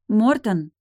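loud, high call of his name. Acted. Sister calling her brother back, loud and high. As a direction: shout his name after him. Лой calls after brother.

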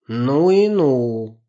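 very slow, loud amazed exclaim; drawn-out amazement; surprised. Acted. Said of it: "удивился Максим".

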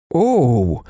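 mild voiced groan; jockey's groan. A narrator's reading. Jockey reacting to Wokulski's offer, mild groan. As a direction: let out a short acted groan. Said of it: "простогнав жокей".

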